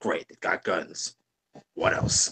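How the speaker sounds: soft, breathy, gravelly rasp under the breath. Describing a guard interrogation in a game, the speaker voices Sam's gravelly tone. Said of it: "in his gravelly tone just goes".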